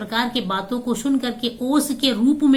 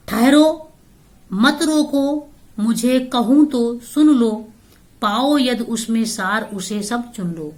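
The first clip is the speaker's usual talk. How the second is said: poem recitation. Acted. Teacher voicing Kaikeyi stopping the assembly, ringing verse. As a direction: call out the halt, then recite.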